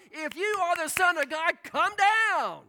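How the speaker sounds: loud, high jeering challenge; mocking taunt. Preacher voicing the mockers' loud jeering taunt. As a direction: hurl it up at the cross as a sneer.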